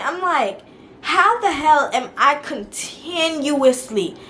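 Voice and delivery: exasperated venting at the sister; fed up. Retold or imitated. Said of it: "I'm fed up".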